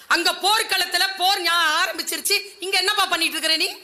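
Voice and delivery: mildly voiced elder brother scolding a younger one; angry elder brother. Dharma scolding Arjuna, lightly angry and quick. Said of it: "அர்ஜுனனை பார்த்து கோபமா கேட்டாராம்".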